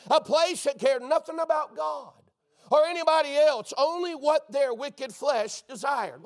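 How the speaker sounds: building fiery preaching; preaching shout. Real, not acted. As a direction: call it out hard over the church. Preacher rising against a wicked world.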